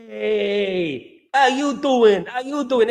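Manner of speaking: put-on American catchphrase voice; Fonzie. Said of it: "do an impression of Fonzie of Happy Days".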